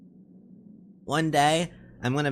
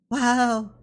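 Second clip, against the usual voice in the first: startled whoa; 11 semitones higher, 5 dB louder than usual. Acted. Character slips on snow.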